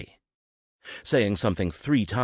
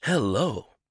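lively hello to an excited dog; animated hello; 5 semitones higher than usual. Acted. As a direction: greet the bouncing dog with energy. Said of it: "responded with an animated".

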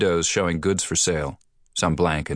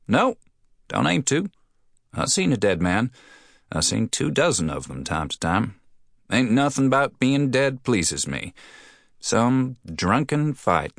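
a fussy cafe man, pitched up; high-pitched townsman; 6 semitones higher than usual. Acted. Restaurant man talks about death.

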